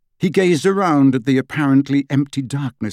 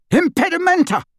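high, sharp battle yell; yelled spell; 3 dB louder than usual. A narrator's reading. Harry jinxing the Death Eaters, high yell. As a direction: hurl the jinx at the attackers. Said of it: "pointed at the middle of the oncoming figures and yelled".

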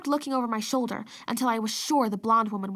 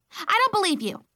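put-on high, loud little-girl cry; a toddler shouting denial; 9 semitones higher, 4 dB louder than usual. A narrator's reading. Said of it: "she cried".

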